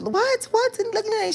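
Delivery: high-pitched imitation of a Dominican mom; Dominican accent. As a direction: mimic a mom's high, excited Dominican accent. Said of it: "talking in that Dominican accent".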